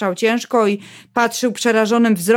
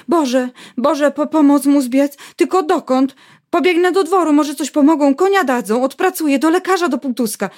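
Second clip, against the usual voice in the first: higher, hurried, desperate planning; panicked wife; 5 semitones higher than usual. Acted. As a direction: voice climbing in panic. Panicked wife plans help. (spanikowana żona, wyżej)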